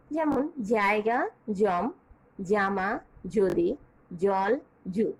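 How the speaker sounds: জায়গা, জামা, যদি, জল said slowly and clearly, one by one; example words. Shown as a demonstration. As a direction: lay out each example word carefully. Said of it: "উচ্চারণ করছি একই".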